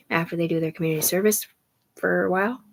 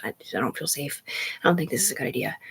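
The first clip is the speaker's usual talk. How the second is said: whispered quote; 2 semitones lower, 5 dB quieter than usual. Retold or imitated. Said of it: "I was like".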